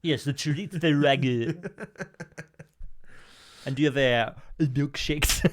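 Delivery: a hint of Woody Allen asking for milkshakes; Woody Allen impression. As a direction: order hesitantly like Woody Allen. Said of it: "it was Woody Allen now".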